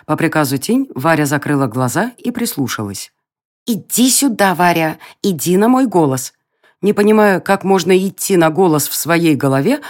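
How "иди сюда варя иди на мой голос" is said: pixie. Acted. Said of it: "голос феи раздаётся прямо у неё в голове".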